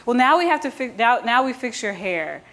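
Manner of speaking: lightly voiced bossy Madame; Madame instructing. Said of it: "so then she goes".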